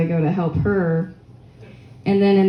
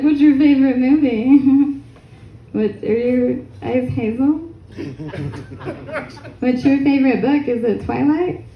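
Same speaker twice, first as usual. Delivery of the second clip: mock eager; 6 semitones higher than usual. Acting eager getting-to-know-you chat with captor.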